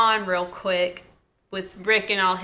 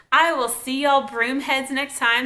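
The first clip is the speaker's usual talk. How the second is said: country accent; 4 semitones higher than usual. Real, not acted. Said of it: "Sorry I sound so country".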